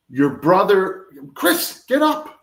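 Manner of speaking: high, loud frantic call upstairs; retold scream. Mother yelling up to her son in alarm, loud scream. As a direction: yell it up the stairs in a panic. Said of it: "my mother screams down to me".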